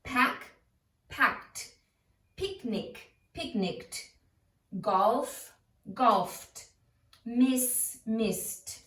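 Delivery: base word, then "packed", "picnicked", "golfed", "missed" with ed as T; T endings. Shown as a demonstration. Teacher drilling unvoiced endings, each ed said as T. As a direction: add only a breathy T to form "packed", "picnicked", "golfed", "missed". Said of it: "They all sound like T's".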